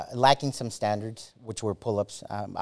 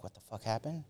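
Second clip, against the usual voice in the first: stunned mutter; 11 dB quieter than usual. Retold or imitated. Retold inner shock.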